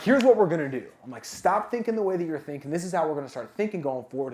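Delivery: forceful take-charge orders, starting loud; war mode. Retold or imitated. Coach fixing a negative guy's mindset, war mode. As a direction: launch in loudly, laying down the plan. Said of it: "war mode".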